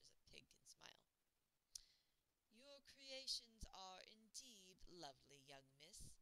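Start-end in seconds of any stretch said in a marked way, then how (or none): 2.5-6.1 courtly butler. Acted. Pig butler speaks politely.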